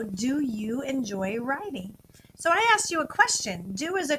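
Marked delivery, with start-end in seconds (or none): 0.0-2.0 slow asking. Shown as a demonstration. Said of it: "I wanna know".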